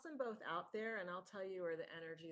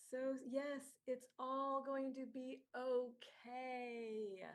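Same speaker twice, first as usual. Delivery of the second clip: lightly voiced spirit, gentle and amused; channeled departed spirit. Medium channels departed friend.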